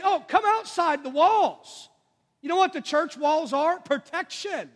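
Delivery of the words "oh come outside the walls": devil tempting. Acted. The devil luring church members.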